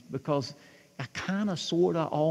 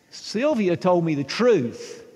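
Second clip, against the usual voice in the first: slow, loud, laughing repeat; louder repeat; 3 semitones higher, 4 dB louder, slower than usual. Shown as a demonstration. Pastor repeating for congregation, loud and slow. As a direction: say it again for the room, with a laugh. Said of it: "You don't have to say it so loud".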